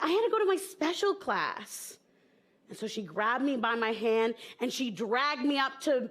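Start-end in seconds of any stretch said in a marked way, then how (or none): 0.0-2.0 put-on little kid voice. Child explains to her mom.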